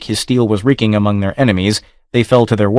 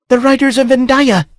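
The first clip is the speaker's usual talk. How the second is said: high, ringing female voice in triumph; exultant cry. A narrator's reading. Princess sees her riders and cries out in triumph. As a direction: cry it out with joy. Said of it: "she cried exultingly".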